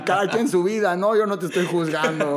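sassy retort. Retold or imitated. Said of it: "Así de".

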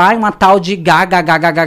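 loud sneering imitation, repeating the name; mock the name with disdain. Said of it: "debochando de mim". (imitando com deboche)

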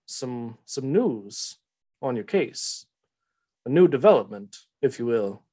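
put-on Southern-accented boss giving a mission; brief the boys in a light Southern accent, with pauses; Telamon. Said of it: "Southern accent".

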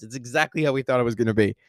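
fast, emphatic excited repeat; excited emphasis. Real, not acted. Reviewer insisting to fans it matched expectations, excited. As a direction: hammer it home with excitement. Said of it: "repeats line more intensely".

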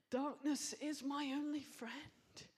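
breathy, slow, hushed whisper; whispered lament. Acted. Preacher whispers the despairing psalm line to the congregation, hushed.

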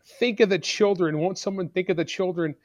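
mocking politicians' pious cry; mock self-righteous. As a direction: ham up a preachy moral appeal. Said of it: "holier than thou, self-righteous".

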